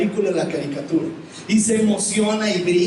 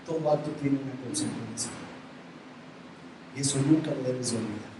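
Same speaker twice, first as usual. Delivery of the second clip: suave, pausado, más bajo; consejo tierno; 3 dB quieter than usual. Retold or imitated. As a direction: habla despacio y con ternura al hijo. Padre aconseja al hijo. (padre enseña al hijo con ternura suave)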